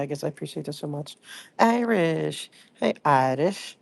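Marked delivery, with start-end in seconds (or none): 1.6-3.8 the name Irish drawn out in a clumsy accent; horrible accent. Shown as a demonstration. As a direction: greet Irish in a badly faked accent. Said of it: "With my horrible accent".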